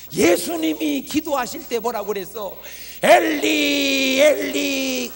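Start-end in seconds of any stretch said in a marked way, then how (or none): 3.0-5.1 long drawn-out loud wail of the name; anguished cry. Acted. Jesus crying out to God in prayer, a long anguished wail.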